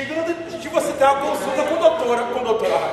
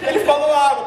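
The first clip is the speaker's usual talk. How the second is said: a mild proud parent, louder; 4 dB louder than usual. Retold or imitated. (pai orgulhoso, leve)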